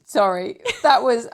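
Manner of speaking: words pushed out on a burp; half-burped apology. Real, not acted. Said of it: "almost an alphabet burp talk".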